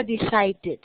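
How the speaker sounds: "decided" with a sounded final "-did" syllable. Shown as a demonstration. Teacher adds the past ending for students, "decided" ending in "-id". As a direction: give "decided" its extra short "id" ending. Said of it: "Le agregamos la D, se pronuncia".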